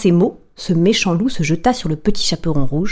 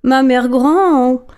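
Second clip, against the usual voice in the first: put-on higher, slow child's voice, louder; a curious child asking slowly; the girl marvelling at grandmother's arms, slow and higher; wondering little girl; 5 semitones higher, 4 dB louder, slower than usual. Girl questions the wolf.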